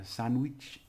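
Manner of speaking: "Sandwich" with a drawn-out "ee" in "wich"; Spanish pronunciation. Shown as a demonstration. Teacher showing their letter sounds, Spanish pronunciation. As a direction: say "Sandwich" slowly as "sand-weech". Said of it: "it's the E sound in there".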